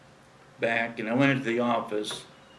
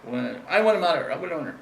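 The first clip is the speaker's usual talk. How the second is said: fast, higher, flustered insisting; frantic demand; 5 semitones higher, much faster than usual. Retold or imitated. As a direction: rush it like a flapping rooster. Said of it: "running around like a bangy rooster".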